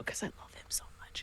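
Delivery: a whispered confession of love; fond whisper. Real, not acted. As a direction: breathe it out lovingly. Fond aside.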